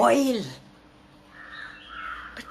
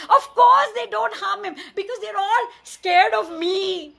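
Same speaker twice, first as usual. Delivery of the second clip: loud, higher gloating laugh through the words; laughing boast; 7 semitones higher, 4 dB louder than usual. A narrator's reading. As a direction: gloat and laugh at your own greatness. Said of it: "And he laughed".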